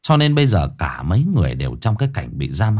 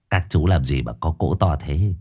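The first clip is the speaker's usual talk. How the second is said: Quyết Thọt sidling in, lower sly voice; 4 semitones lower than usual. Acted. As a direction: wheedle your way into the feast.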